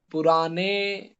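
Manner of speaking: پرانے drawn out slowly to a long "ay"; majhool "ay" ending. Shown as a demonstration. Teacher points out the vowel, پرانے ending in a slow, held "ay". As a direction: hold the final vowel of پرانے, "puraanay". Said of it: "یا مجہولہ".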